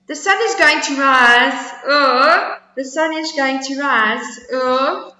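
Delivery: high squeaky squirrel voice; little squirrel. Acted. Squirrel questioning the bragging bear, high squeaky voice. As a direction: pipe it up small and high.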